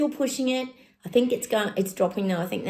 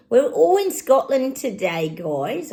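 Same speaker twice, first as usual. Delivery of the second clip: hammed-up attempt at Scottish, high and loud; badly faked Scottish accent, pitched up; 6 semitones higher, 5 dB louder, slower than usual. Host tells guys they're in Scotland, bad Scottish accent. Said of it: "I can't do a Scottish accent".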